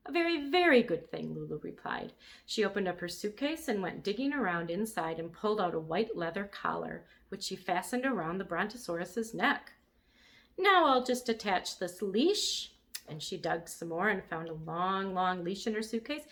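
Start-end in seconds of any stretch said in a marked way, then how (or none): 0.1-1.3 put-on bright, high, eager little girl; eager agreement. A narrator's reading. Eager little girl. 10.6-12.7 higher, slow and pleased with herself; bossy little girl. A narrator's reading. Lulu voiced in read story.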